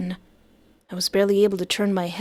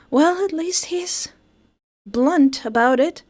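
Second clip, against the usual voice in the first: wry joke; 6 semitones higher, 5 dB louder, slower than usual. Real, not acted. Joking punchline.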